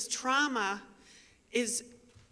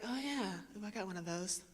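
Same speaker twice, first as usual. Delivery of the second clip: imitating listener; 3 semitones lower, 10 dB quieter than usual. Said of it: "You're like".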